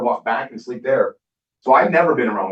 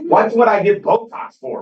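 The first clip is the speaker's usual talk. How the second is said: high, slow, louder disbelief; incredulous; 9 semitones higher, 5 dB louder, slower than usual. Retold or imitated. Answering his daughter's Botox question, high and slow in disbelief. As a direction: stretch it out, baffled.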